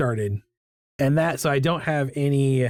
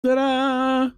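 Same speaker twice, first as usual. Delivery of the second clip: ta-da; 10 semitones higher than usual. Real, not acted. Presents finished drawing.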